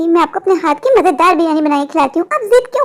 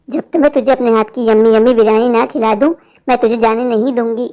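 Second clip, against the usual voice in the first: much lower witch voice giving orders; commanding witch; 8 semitones lower than usual. Acted. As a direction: order him like a monstrous witch. Witch insists on feeding him. (बहुत नीची आवाज़ में हुक्म देती चुड़ैल)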